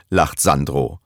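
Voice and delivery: usual speaking voice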